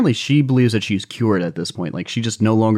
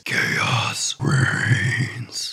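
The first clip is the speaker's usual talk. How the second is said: deep slow-mo voice; 4 dB quieter than usual. Retold or imitated. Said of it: "utters in a deep baritone slow-mo voice".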